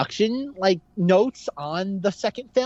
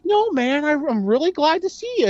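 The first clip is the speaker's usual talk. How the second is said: mock sincere Stifler; 10 semitones higher than usual. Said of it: "He's like".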